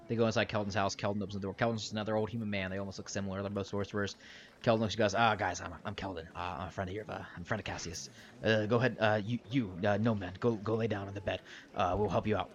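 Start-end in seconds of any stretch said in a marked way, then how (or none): 5.1-12.5 lightly voiced, fumbling introduction with many fillers; hesitant friendly sorcerer. Game master plays Kelton.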